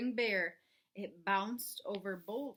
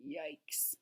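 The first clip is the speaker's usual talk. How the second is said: soft, lower worried whisper; whispered yikes; 6 semitones lower, 8 dB quieter than usual. Real, not acted. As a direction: breathe it out in alarm. Suspense before the splash.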